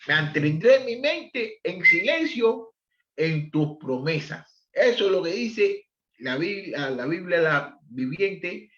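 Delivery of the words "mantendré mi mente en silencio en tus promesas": slow scripture reading. Shown as a demonstration.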